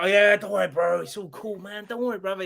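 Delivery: fake reassurance. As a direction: act the cool friend while hiding your glee. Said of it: "And I was like".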